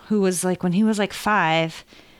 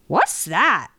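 put-on cat's little boy voice. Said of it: "His voice is kind of like".

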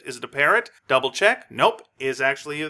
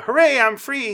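higher, louder joyful whoop; joyful cheer; 12 semitones higher, 7 dB louder than usual. Acted. Captain cheering as he rolls away in the wheelchair. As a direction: cheer it out like he's just been freed. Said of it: "he says".

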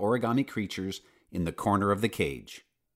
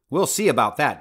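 laughing; 4 semitones higher, 7 dB louder than usual. Acted. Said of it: "Doctor Simon laughed".

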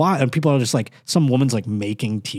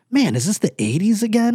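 higher, marvelling delivery; mock amazement; 9 semitones higher than usual. Walking into a lively mall, mock amazement. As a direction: marvel as if transported back in time.

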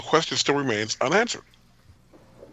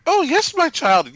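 high, louder, slow smug mock-pious voice; Kai Wynn, smug; 5 dB louder, slower than usual. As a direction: draw it out high and condescending, imitating her. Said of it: "And she's so smug".

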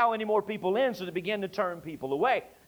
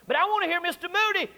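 put-on higher, quicker childlike plea; pleading little boy; 9 semitones higher, faster than usual. Little boy begging the doorman, lightly voiced. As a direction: beg like a small boy.

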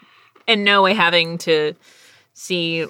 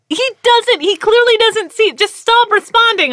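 exasperated Steven; 6 dB louder than usual. Retold or imitated. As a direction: whine it like a fed-up husband. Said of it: "He's like".

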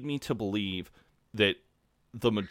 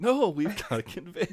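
mock juror; 9 semitones higher than usual.

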